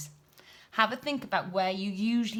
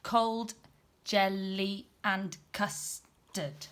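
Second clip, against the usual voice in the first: slow, syllable by syllable like a robot; slower than usual. Shown as a demonstration. Teacher showing pupils robot speech, slow and even. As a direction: break Cold, jelly and custard into robot beats. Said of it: "speaking a little bit like a robot".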